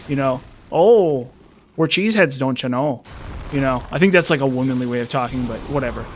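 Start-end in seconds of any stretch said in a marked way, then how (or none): 0.7-3.0 a light mock Milwaukee accent, drawn-out vowels. Imagining Peter Griffin from Wisconsin, a light mock Milwaukee accent. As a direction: tease it in a loose Wisconsin accent. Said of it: "decided to do a Milwaukee accent".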